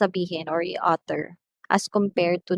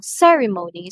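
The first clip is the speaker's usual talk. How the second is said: "ceremony" with CE raised and the rest level; first syllable higher; 6 dB louder than usual. Shown as a demonstration. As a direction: slightly lift the start of "ceremony". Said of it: "medyo tataas ng konti yung tone".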